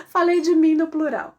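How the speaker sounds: high, loud, laughing admission; amused. Real, not acted. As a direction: laugh through owning up to a slip. Laughing at her own slip.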